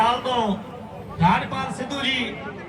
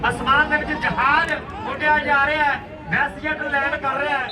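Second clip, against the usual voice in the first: frantic rural sports commentary; 3 dB louder than usual. Acted. Loud live kabaddi commentary.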